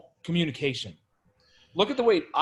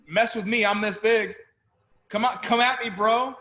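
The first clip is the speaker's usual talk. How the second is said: cocky challenge; 3 semitones higher than usual. Pretend. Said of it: "nature putting that default in us".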